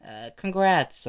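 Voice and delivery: high-pitched, emphatic god character; kid god. Acted. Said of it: "As God just says".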